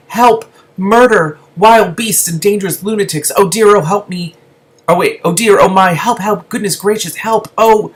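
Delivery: high, loud panicked yelling; shouting for help. Acted. Lizard rolled in a ball being batted by kitten, shouting in panic. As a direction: shriek for help like a frightened lizard. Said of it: "Suze's voice started shouting".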